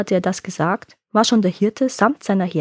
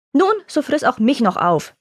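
a mildly angry mother, a touch higher; 5 semitones higher than usual. Acted. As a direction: snap it out in light anger. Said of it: "sagte die Mutter zornig".

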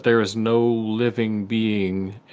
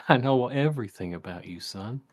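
folksy dad voice; 5 dB quieter than usual. Acted. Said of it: "folksy voice he always used to do".

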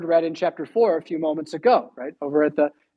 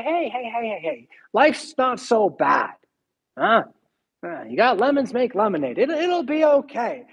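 soothing messenger; 3 semitones higher than usual. Retold or imitated. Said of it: "she sends some of her people to say".

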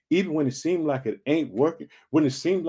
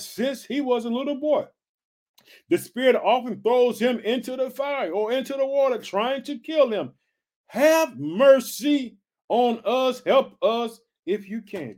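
higher, slow, begging plea; pleading father; 5 semitones higher than usual. Retold or imitated. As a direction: beg Jesus to save your son. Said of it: "That's a plea".

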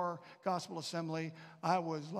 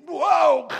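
loud, higher startled whoa; startled cry; 10 semitones higher, 18 dB louder than usual. Retold or imitated. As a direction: cry out as if knocked down. Falling under the power.

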